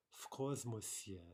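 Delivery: в космосе with в said as f; slow model of "в космосе" with an f sound; "в космосе" clearly voiced as "f kosmose"; devoiced в. Shown as a demonstration. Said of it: "Again, devoicing".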